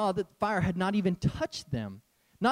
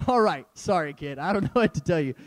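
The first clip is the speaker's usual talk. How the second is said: laughing apology; 3 semitones lower than usual. Retold or imitated. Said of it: "And I'm like".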